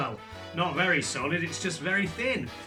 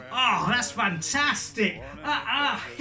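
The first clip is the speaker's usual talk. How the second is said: laughing; 5 semitones higher, slower than usual. Real, not acted. Laughing at the turkey hat.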